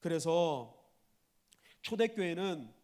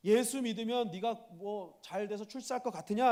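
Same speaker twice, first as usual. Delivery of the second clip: higher-pitched mocking question; lightly acted jeer, pitched up; sarcastic; 4 semitones higher, 4 dB louder than usual. Royal master doubting his groom will prosper, mildly sarcastic. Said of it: "하고 빈정된 거예요".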